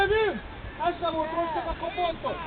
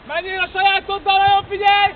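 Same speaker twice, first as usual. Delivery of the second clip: louder instruction across the pitch; firm shout; 3 semitones higher, 6 dB louder than usual. Real, not acted. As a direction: bark the order clearly. Coach instructing during play.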